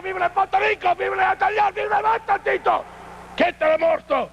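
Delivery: mocking broken Spanish gibberish, Spanish accent, rising toward the vivas; sneering mock Spanish accent. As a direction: ham up a fake Spanish accent to ridicule the rival. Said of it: "half-wits that speak broken English".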